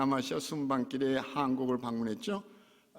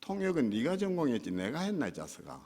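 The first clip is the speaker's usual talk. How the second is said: gruff Gyeongsang friend; 5 semitones lower than usual. Retold or imitated. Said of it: "하신다는 말씀에".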